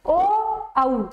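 ओ then औ drawn out clearly; vowel demo. Shown as a demonstration. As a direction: round the lips for ओ, open for औ. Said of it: "बोलोगे ओ औ तो आप देखोगे". (ओ औ का साफ़ उच्चारण)

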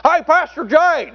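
high, slow Southern teen impression; Dan Parchman. Teen greeting his pastor, imitated Southern voice. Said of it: "He talked like this".

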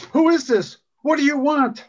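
high-pitched narrated panic; screaming down the phone. A narrator's reading. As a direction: cry out high in alarm. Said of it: "Anne screaming into the phone".

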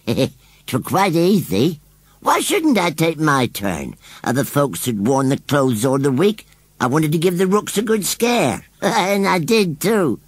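high, slow scarecrow with chuckles breaking in; wheezy chuckling scarecrow. A narrator's reading. Scarecrow owning up to his prank, high wheezy chuckling. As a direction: boast gleefully in a wheezy scarecrow voice. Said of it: "Here he broke off and chuckled wheezily".

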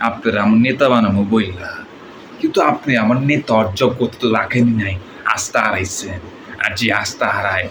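Dipjol-style gangster dialogue; lightly voiced film villain; movie villain. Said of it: "এটা ছিল আমাদের ডিপজল ভাই ডায়লগ".

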